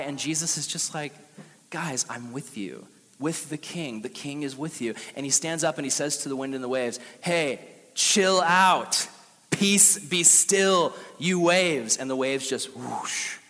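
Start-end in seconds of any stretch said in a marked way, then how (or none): 1.7-4.9 calm reassurance. Retold or imitated. Jesus calming scared disciples. 7.2-12.0 slow, loud command; commanding the storm. Retold or imitated. Jesus to wind and waves, slow loud command.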